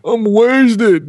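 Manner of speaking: the creeper weed hits you mid-sentence; suddenly stoned. Retold or imitated. Stoner suddenly realizing how high he is. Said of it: "you're going".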